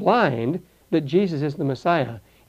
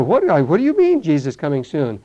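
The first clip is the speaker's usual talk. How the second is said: incredulous mock reaction; 5 dB louder than usual. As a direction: act out a baffled passer-by. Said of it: "they'll look at you as if you're a man".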